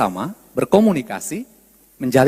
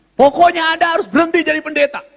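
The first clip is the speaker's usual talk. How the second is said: insistent demand; 4 semitones higher, faster than usual. Acted. Acts a dogmatic accuser.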